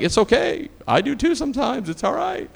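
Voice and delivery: high, soothing it's-fine voice; acted reassurance. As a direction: lightly reassure someone embarrassed, pitch climbing. Retells reassuring an embarrassed passenger.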